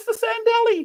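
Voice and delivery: tiny, very high, squeaky little voice. Recalling how my friend Deneen said a man's name, in her little squeaky voice. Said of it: "She had this little squeaky voice".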